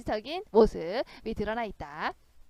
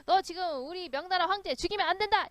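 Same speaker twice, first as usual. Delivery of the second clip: shouting; 5 semitones higher than usual. Acted. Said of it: "막 크게 소리치면서".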